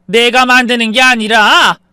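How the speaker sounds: high, loud, drawn-out protest; frustrated shout. Acted. Mother denying son's accusation, frustrated shout.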